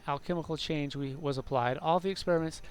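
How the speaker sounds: measured story narration; narrating in-game lore aloud; lore book reading. Acted. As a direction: read it out like a formal chronicle.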